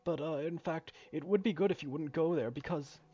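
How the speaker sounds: lightly voiced game character explaining the job; a hint of a halting, polite foreman; hesitant mine worker. Reads mine worker's explanation aloud.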